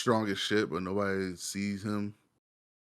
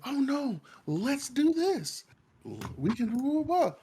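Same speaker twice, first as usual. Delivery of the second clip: mocking Marty. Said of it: "When he said".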